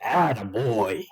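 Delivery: slow, drawn-out Texan praise; approving dad. A narrator's reading. Father praising his son, slow drawl. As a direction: stretch it out, pleased with him.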